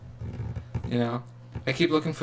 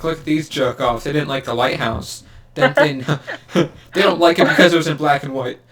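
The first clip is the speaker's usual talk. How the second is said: sneering commenter; 3 semitones higher, 6 dB louder than usual. Retold or imitated. Mocking imagined Reddit commenters.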